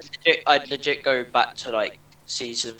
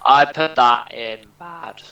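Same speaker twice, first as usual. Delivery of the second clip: voice crack; 4 dB louder, slower than usual. Real, not acted. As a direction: voice cracking on bad. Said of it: "All that voice crack".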